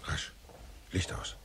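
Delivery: quick hissed order to kill the light; urgent whisper. Acted. Detective to his men while hiding, urgent whisper. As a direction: whisper it fast, don't give us away.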